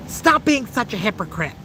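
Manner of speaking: put-on Nigerian accent. Streamer doing his requested Nigerian voice for chat, Nigerian accent. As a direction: deliver it in a mock Nigerian voice. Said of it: "do your Nigerian voice".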